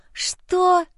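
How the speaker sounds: sharp hissed whisper of rage; furious whispered what. Acted. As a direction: hiss it through your teeth. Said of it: "зашипела я".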